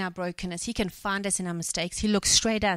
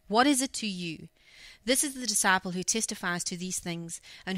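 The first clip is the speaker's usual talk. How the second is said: steady, measured Bible reading; scripture reading. Acted. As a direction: read the passage like a lesson from the pulpit. Reads the scripture passage aloud.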